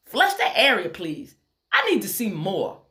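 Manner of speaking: put-on Tennessee accent. A narrator's reading. Surgeon ordering her resident to flush the area, strong Tennessee accent. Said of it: "in a strong Tennessee accent".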